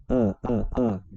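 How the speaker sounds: "A" as a short, open "ah". Shown as a demonstration. Teacher isolating the first sound of are, open "A". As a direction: say each "A" wide open, separately. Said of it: "esse A com acento aberto".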